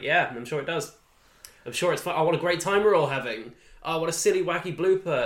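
dry sarcasm, mock cheerful; sarcastic. Welsh tutor to laughing actors, mock cheerful and sarcastic. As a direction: sneer through fake delight.

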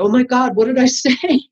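mock amazement with a laugh breaking in; retold disbelief. Teacher alone after class, retold disbelief.

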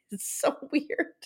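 breathy laugh through the words; laughing disbelief. Real, not acted. Host recapping a bizarre taping scene, laughing. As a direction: let the words dissolve into a laugh.

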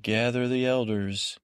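mildly commanding, retold order. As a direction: give a brief instruction, lightly acted. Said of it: "Don't order me around".

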